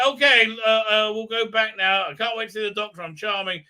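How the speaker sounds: high, loud gushing mock voice; mocking companions thanking a hero; mock farewell speech. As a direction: gush it in parody.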